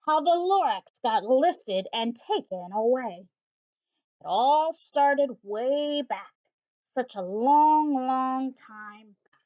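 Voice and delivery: slow, lightly voiced buzzing old recluse; a hint of bees up his nose, drawn out; buzzy old Once-ler. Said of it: "he sounds as if he had smallish bees up his nose".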